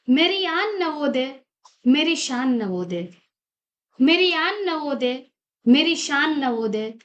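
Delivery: measured, rhythmic recital with repeated lines; poem recitation. Acted. Student presents her own poem on Navodaya's foundation day, reciting. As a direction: declaim verse with rising openings and falling refrains.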